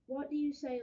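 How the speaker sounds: loud cheerful invitation; cheerful call. Acted. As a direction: call everyone to eat. Parents call out together.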